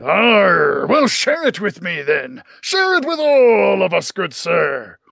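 gruff pirate captain calling across the room; hearty sea captain hailing a stranger. Acted. Captain replies in voice.

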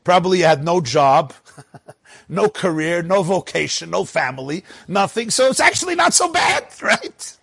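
incredulous fellow inmates poking fun; mocking prisoners. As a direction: rib him like he's a nobody. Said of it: "they turned to me and they said".

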